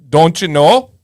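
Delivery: light Yooper lilt, rising at the end; a touch of Upper Peninsula Canadian-American twang; Yooper accent. Shown as a demonstration. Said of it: "they do have their own little accent".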